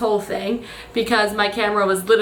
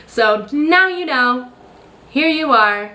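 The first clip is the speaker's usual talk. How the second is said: slow, drawn-out, a bit louder; hammed-up sign-off voice, dragged out; a goofy mock-announcer voice, slowed right down; silly put-on voice; 3 semitones higher, 3 dB louder, slower than usual. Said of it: "I need to stop doing that voice".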